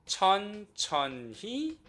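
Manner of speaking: demonstrating slow speech; slowly, drawn out. Shown as a demonstration. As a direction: draw out each syllable of 천천히. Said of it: "천천히 이야기할 거예요".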